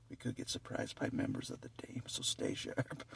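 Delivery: whispered warning. Real, not acted.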